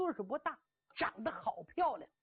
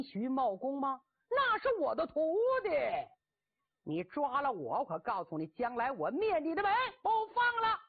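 bragging bluster; 5 semitones higher than usual. Acted. Cheng Yaojin brags while tied up.

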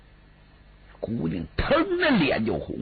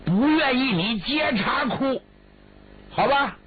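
much higher, sing-song coaxing; coaxing ultimatum; 10 semitones higher than usual. Acted. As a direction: wheedle her like a child, pitched way up. Brother's high coaxing ultimatum.

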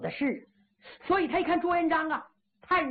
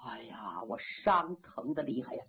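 feigned pain; 12 semitones lower, 7 dB quieter than usual. Acted. Luo Lei fakes a wound.

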